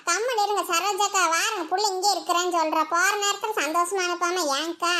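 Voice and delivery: ordinary talk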